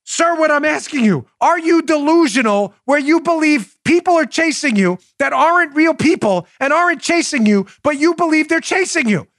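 high-pitched, emphatic salesman spelling it out; exasperated explaining. Acted. Salesman asking buyer if he is delusional, exasperated.

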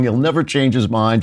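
normal talking voice

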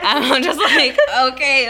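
laughing. Retold or imitated. Mock resigned reply to mom.

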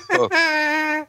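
a high laughing "No." cracking into giggles. Real, not acted. Cohost denying through laughter, laughing.

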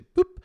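sudden high popping "pup"; a sharp squeaky thump sound; fainting thud noise. Retold or imitated. Mimics friend fainting.

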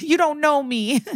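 high-pitched imitated wail; mock crying cry-out. Scolded prosecutor protests to the judge, high mock cry. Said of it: "And he cries".

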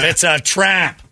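Admiral Akbar. Retold or imitated. He quotes Akbar warning him at work, mock alarm. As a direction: shout it like a sci-fi admiral. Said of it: "Admiral Akbar ... shouting that".

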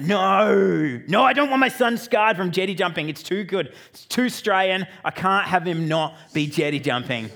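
father refusing to let son quit jumping; protest. Retold or imitated. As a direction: insist he can't quit.

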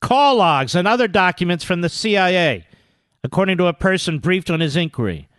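measured, projected article reading; news read. Real, not acted. Radio host reading breaking story aloud, emphatic news read. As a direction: read it out point by point.

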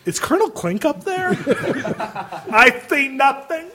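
mock German. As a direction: play a sitcom German guard, lightly. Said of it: "It's like".

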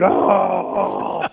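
drawn-out dazed "oh"; mock groan of pain. Elbowed opponent staggering, groaning. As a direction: imitate someone reeling from a blow.

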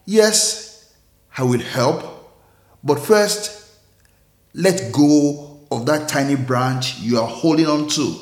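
calm. Acted. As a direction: reassure him gently, letting the voice drop away. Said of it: "calmly replied".

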